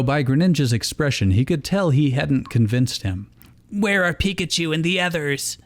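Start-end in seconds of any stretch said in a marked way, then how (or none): 3.7-5.6 worried inner voice, gently played; lightly voiced Ash.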